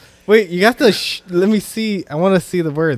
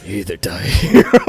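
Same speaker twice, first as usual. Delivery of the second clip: tired voice; 9 semitones lower, 5 dB louder than usual. Retold or imitated. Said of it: "I gotta do your tired voice".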